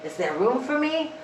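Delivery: high storybook pig; high cold pig voice. Acted. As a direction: plead like a cold wet piglet.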